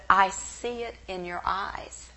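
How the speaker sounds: hushed Israeli stranger's whisper. Retold or imitated. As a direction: breathe it as a secret. Stranger speaks intimately in market.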